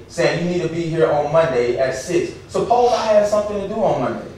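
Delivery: worked-up, indignant appeal; impassioned self-defense; emotional. Real, not acted. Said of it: "I'm sorry if I'm emotional tonight".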